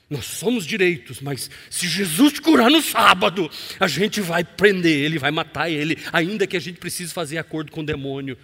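loud, smug religious hypocrite; self-righteous Pharisee. Retold or imitated. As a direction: declare it like a proud Pharisee. Pastor encarna os fariseus. (fariseu arrogante e alto)

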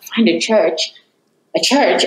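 a rising, disbelieving double take; incredulous echo. Retold or imitated. A woman repeating God's odd instruction in disbelief, incredulous. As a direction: repeat it back like you can't believe it.

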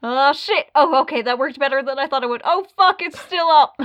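mock panic, blurting fast and high; terrified gibbering. Imagined hero panicking mid-fight.

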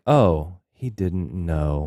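slow, lightly voiced evil gloat; mild slow evil taunt. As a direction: savour it slowly, a hint of villain. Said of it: "the evil way he's like".

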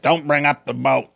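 lightly voiced imitation of a character; understated quote of her warning; a hint of her voice; imitating Sam. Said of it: "That's how she sounds".

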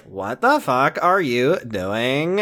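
slow, drawn-out disbelief; incredulous voice. Pretend. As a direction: stretch it out in disbelief. Hillary's incredulous quote.

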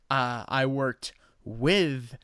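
gently insist, a little hurt; meek correction. Retold or imitated. Timid teacher correcting the student.

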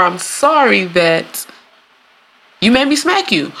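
drawn out, then rising indignant; smug blame. Acted. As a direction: hand the blame back.

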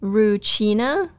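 Rucina as roo-CHEE-na, drawn out with a questioning rise; Rucina, slow, rising on the end; echoed pronunciation. Retold or imitated. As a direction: repeat Rucina slowly with a ch, checking. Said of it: "You're saying".

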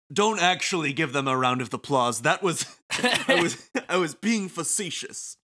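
showy, facetious villain host; theatrical taunting announcer. Acted. Game villain invites the Wicked Twisters over, theatrical taunting announcer. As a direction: toy with the listeners, savoring the threat.

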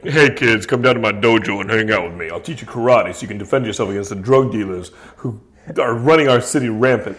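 put-on a faint Belgian-accent karate star selling classes; lightly voiced Belgian accent.

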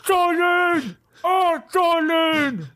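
high, slow, theatrical hurt; wounded darling. Acted. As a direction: swoon with mock offence. Hector wounded by being called creep.

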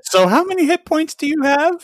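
high mock game-master voice; dreaded question mimicked. Player mimicking the question everyone dreads, mock-high. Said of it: "It's always the question you dread".

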